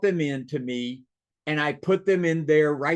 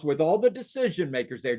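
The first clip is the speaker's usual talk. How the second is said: "decision makers" pitched up and stressed; pointed emphasis. Shown as a demonstration. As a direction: lean firmly on "all the decision makers". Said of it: "Did you hear what I just said?".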